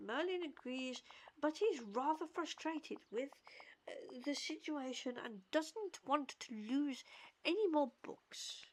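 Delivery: measured read-aloud of a character's lines; lightly performed storybook-style read; reading dialogue aloud. Acted. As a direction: read it out with careful, lightly acted phrasing. Reads game character's dialogue aloud.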